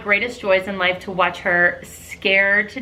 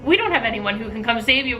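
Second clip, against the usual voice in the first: fake production staffer; 4 semitones higher than usual. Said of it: "Diane's acting like production".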